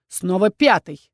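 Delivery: slow, pointed sarcasm on "Пятый"; sarcastic repeat. Acted. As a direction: drag out "Снова Пятый" with mock weariness. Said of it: "язвительно поддел дракон".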